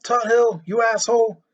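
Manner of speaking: high, loud angry scream. Acted. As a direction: scream out the window. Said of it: "screamed out".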